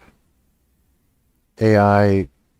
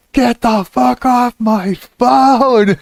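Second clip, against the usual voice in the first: very high, drawn-out, louder rant; yelled threat; 13 semitones higher, 5 dB louder, much slower than usual. Retold or imitated. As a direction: reenact screaming at a chatbot. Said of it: "screaming and yelling and threatening the chatbot".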